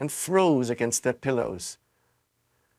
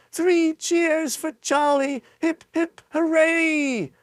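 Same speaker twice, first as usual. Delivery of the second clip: high, slow triumphant cheer; slower than usual. A narrator's reading. Grandpa Joe cheers for Charlie, high and slow. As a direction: lead the cheer.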